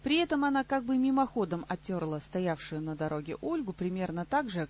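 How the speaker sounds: plain reading voice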